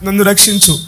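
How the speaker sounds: demonstrated plea for mercy; acted prayer cry. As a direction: plead with God, phrase after phrase. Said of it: "ఏంటయ్యా మీ కేక".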